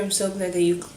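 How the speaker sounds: words broken off by hiccups; suppressing hiccups. Real, not acted. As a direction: cut off by a hiccup. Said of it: "sorry, I have the hiccups".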